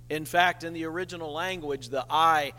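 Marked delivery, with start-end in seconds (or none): 2.1-2.5 a punched, emphatic "I". Shown as a demonstration. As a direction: stress on "I", hit louder. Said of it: "Notice the emphasis on the word".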